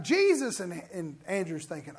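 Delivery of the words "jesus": mock scream. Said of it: "he screams it out a third time".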